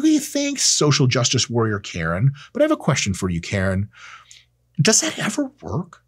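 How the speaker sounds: mock-sarcastic jab at Karen. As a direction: sneer the question at Karen. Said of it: "Notice I'm being sarcastic".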